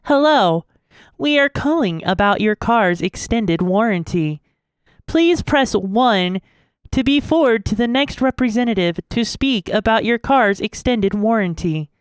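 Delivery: flat automated phone message voice; robocall. Pretend. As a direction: read it like a scam call recording. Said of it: "I'm actually really good at this".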